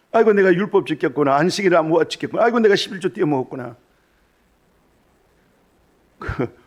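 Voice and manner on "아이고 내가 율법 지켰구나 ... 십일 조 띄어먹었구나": high, loud mock wail on 아이고, dragged out; hammed-up whiny repentance, 아이고 stretched and falling; imitating a self-pitying believer, loud and high; mock wailing lament. Mocking religious people lamenting.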